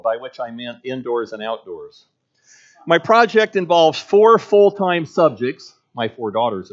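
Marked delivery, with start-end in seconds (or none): 2.9-5.7 slow, higher and louder, weighting each word; mother impressing the clerk, slow and emphatic. Acted. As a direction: spell out the grand title proudly. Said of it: "repeated the title slowly, emphasizing the most significant words".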